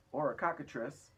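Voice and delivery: yelled. A narrator's reading. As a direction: shout the guess in a fright. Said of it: "yelled the chief of police".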